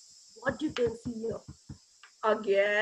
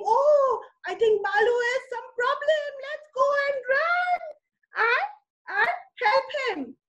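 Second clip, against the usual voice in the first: higher, urgent storytelling voice; mild alarm; 7 semitones higher than usual. A narrator's reading. Farmers react to cry for help.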